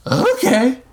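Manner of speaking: answering the roar. A narrator's reading. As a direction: answer the order with a high yell. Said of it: "Future Man answered".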